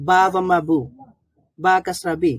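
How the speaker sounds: "বু" and "বি" with short u and i; short vowels. Shown as a demonstration. Teacher shows learners short harakat sounds, short vowels. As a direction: spell it out, ending on short "বু", "বি". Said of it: "এই ধরনের short sound হবে".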